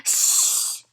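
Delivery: breathy mocking shh; shushing back. A narrator's reading. Fudge shushes the people in front back. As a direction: copy the grown-ups' hush. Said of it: "Fudge said back to them".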